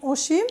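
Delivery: অসীম said "oshim", opening on a closed o; first vowel as o. Shown as a demonstration. Teacher showing how names are pronounced, অসীম with initial o. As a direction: open অসীম with an o sound, not aw. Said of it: "ওকার রূপে উচ্চারিত হয়".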